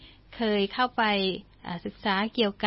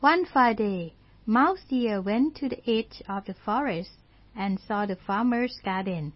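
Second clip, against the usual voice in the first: slow story reading; much slower than usual. Shown as a demonstration. English story read slowly.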